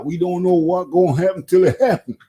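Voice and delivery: put-on Deontay Wilder accent. Boxing host mimics Wilder while debating his next fight, imitated accent. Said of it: "I'm gonna go into my Deontay Wilder accent now".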